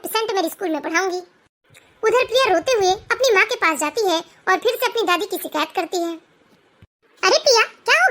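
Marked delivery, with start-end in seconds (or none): 2.0-6.1 story narration. A narrator's reading. (शांत, धीमी कथावाचक आवाज़)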